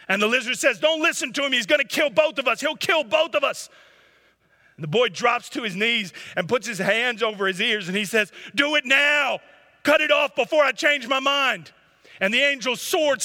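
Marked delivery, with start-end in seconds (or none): 0.8-3.7 very high, loud desperate cry; lizard pleading. A narrator's reading. Lizard begs the boy not to listen to the angel: very high loud desperate cry. 8.5-11.7 very high, loud anguished shout; desperate shout. A narrator's reading. Boy on his knees shouts at the angel to cut the lizard off: anguished shout.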